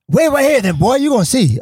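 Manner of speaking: high-pitched mock menace; retold threat. Costumed Joker threatens to come back, menacing. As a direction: warn him like a puffed-up retold bully.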